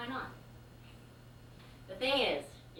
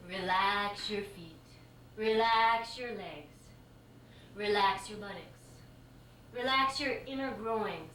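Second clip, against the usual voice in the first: guided relaxation. Retold or imitated. Yoga teacher guiding relaxation.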